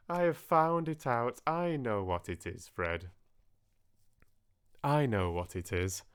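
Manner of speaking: breathless cry of triumph, starting high; a sister crying out the answer; excited discovery. Acted. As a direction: burst out with the answer. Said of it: "cried out".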